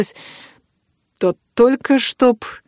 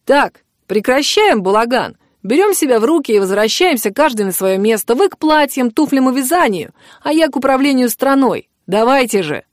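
serious command; 5 semitones higher than usual. Acted. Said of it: "уже серьёзно заявил".

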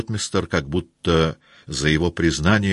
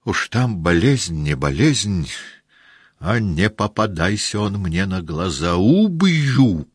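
rising to a loud higher threat; bloodthirsty shout; 4 semitones higher, 4 dB louder than usual. Acted. Denisov threatening the absent thief, loud at the end. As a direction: swear to kill him. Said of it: "кровожадно прокричал Денисов".

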